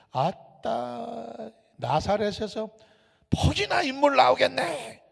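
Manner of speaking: a hint of Jeolla twang in a sneer; scoffing dialect. Nathanael scoffing at Jesus' hometown, light Jeolla dialect sneer. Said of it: "Nathanael scoffs in dialect".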